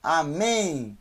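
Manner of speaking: Amém ends in n, not m; final N. Shown as a demonstration. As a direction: close amém on an n sound. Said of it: "Amém não é com M no final".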